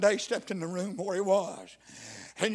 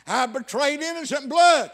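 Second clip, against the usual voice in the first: raised, loud cry in a preacher's voice; 7 semitones higher, 11 dB louder than usual. Retold or imitated. Preacher voices Judas confessing betrayal, crying out. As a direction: stretch it out as Judas's anguished confession. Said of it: "he cried out".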